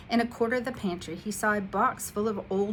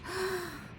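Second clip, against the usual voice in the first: breathless gasp; 12 semitones higher, 7 dB quieter than usual. Acted. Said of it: "Out of breath".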